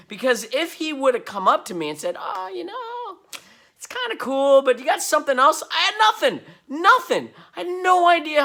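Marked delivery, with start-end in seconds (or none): 2.2-5.6 mock the director's polite letdown; imitating the director. Imagined director asking for more. 5.7-8.4 high, loud words through real laughter; laughing at how unprepared he was. Real, not acted. Laughing at the memory.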